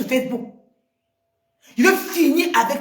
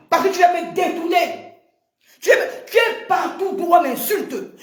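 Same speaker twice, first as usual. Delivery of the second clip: angry shout; 5 semitones higher than usual. Real, not acted. Accusing Véronique in a quarrel.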